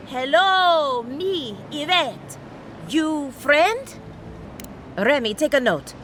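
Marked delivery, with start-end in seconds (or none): 0.1-3.9 talking down. Acted. Philosopher greeting the strange godlike like a pet: patronizing baby talk. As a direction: speak as if it can't understand you.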